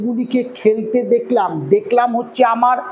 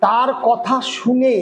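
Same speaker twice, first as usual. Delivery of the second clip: slow dictation; slower than usual. Shown as a demonstration. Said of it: "তাহলে এবার চলো".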